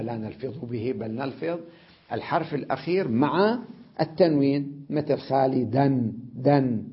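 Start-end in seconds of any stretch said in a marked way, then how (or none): 6.3-6.8 دن said as dan, the d with a clear n; nunated d. Shown as a demonstration. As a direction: sound دن with nunation. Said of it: "الدال منونة". (نطق الدال منونة)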